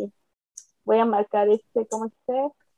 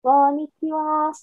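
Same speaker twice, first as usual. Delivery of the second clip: cute anime streamer; 6 semitones higher than usual. Pretend. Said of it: "Ajá".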